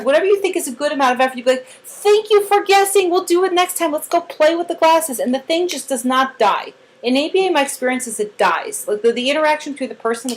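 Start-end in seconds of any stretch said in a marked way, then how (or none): 1.8-5.2 put-on high, upbeat thanks to a child; cheering. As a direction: praise the effort in a raised, encouraging voice. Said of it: "if cheering keeps the child trying".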